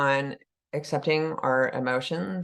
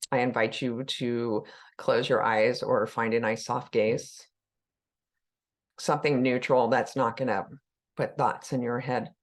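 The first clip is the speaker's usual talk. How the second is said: unhurried guiding voice with long pauses; calm meditation leader, letting phrases settle; guided meditation. Acted. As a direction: ease listeners into the body, leaving room to breathe.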